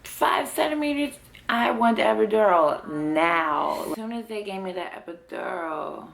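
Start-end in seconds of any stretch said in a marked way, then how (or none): 0.0-3.9 much higher, exasperated retold exclamation; a hint of panic at the number; laboring mother exclaiming at only five centimeters; dismay. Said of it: "So I'm like".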